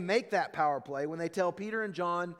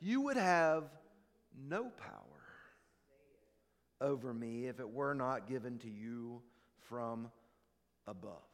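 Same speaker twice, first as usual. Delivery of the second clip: Jesus, quiet and calm; 7 semitones lower, 7 dB quieter than usual. Retold or imitated. Jesus answering Pilate's threat, softer and calm. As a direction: let the words sink almost to a hush. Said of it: "Jesus says".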